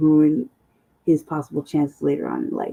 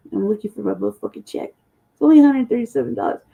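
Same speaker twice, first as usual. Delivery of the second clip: ordinary talk, nothing marked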